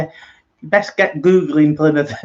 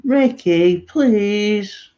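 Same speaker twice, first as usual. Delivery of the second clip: high pleading plea to a bird; high coaxing plea to a pet; 6 semitones higher, much slower than usual. Acted. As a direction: beg the seagull sweetly, pitched high. Pleading with the seagull Ricky.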